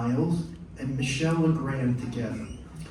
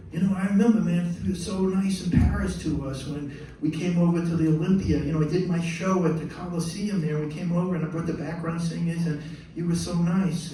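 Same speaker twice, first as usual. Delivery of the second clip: lightly voiced singer, higher; gushing reminder in a slightly raised voice; a singer's voice; 4 semitones higher than usual. Singer reminds composer of meeting in Paris, lightly imitated. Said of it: "and he goes".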